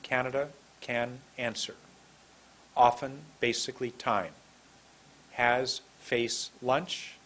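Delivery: word list said slowly, in small groups; measured, careful teacher's word list. Shown as a demonstration. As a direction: read the words out unhurriedly with pauses. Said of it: "I'm going to say them slowly".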